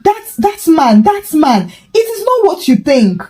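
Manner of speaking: high, stumbling panicked stammer. A narrator's reading. Mama Favor caught out, stammering in high panic. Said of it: "Mama Favor panicked".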